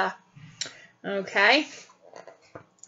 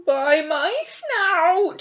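scared pig; 5 semitones higher, much slower than usual. Acted. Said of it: "said Horace".

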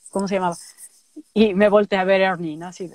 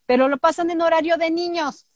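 high protest; 6 semitones higher than usual. Retold or imitated. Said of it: "Tú dilo".

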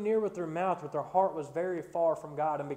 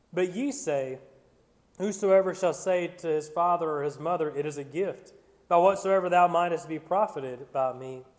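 measured King James reading voice; solemn Bible reading from the pulpit; scripture reading. Acted. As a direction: read the passage with formal weight. Reads Matthew fifteen aloud.

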